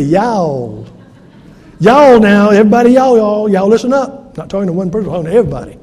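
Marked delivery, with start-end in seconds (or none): 0.0-0.9 Southern y'all. Shown as a demonstration. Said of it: "I'm from South Carolina". 1.8-4.4 loud, high Southern call to the crowd; calling the congregation to listen, loudly in a Southern accent; Southern preacher call. Shown as a demonstration. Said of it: "I'm from South Carolina".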